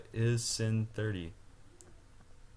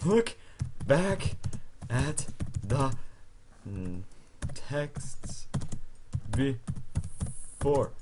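exasperated; 3 semitones higher, much slower than usual. Real, not acted. Insisting in argument.

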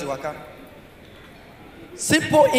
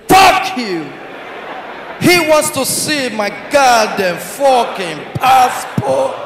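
drawn-out mock American outrage; imitating the American; slower than usual. Another Nigerian copying the American's line, mock American accent. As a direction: swear slowly in a put-on American manner. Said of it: "Talk the same way when that guy talk".

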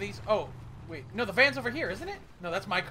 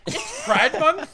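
surprised; 8 semitones higher, 8 dB louder, much slower than usual. Real, not acted. Sudden discovery in game.

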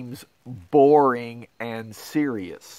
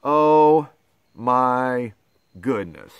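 mock exasperation; 2 semitones lower, 3 dB louder, slower than usual. Reader exhausted after gibberish.

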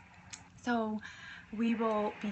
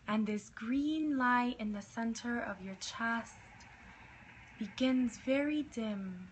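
right in your ear. Acted. Leads a meditation.

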